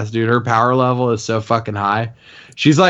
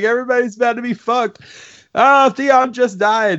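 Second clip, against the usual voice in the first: high frantic fan; 13 semitones higher than usual. Retold or imitated. Fan reacting to deaths, high laughing panic. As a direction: gasp at the carnage, half laughing. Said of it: "And you're like".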